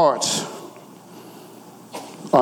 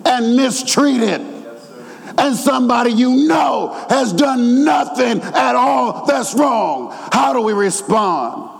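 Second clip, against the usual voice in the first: urgent sermon appeal; fervent preaching; 6 semitones higher than usual. Real, not acted. Preacher warning God's people about hard hearts, fervent. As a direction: press the congregation, drawing out the key words.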